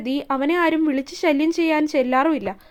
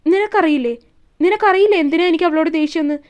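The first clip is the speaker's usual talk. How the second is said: louder, hurling the question back; resentful outburst; 4 dB louder than usual. Acted. Isha throwing her jealousy at Shiva, loud. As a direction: repeat നിനക്കറിയില്ലേ louder each time, accusing.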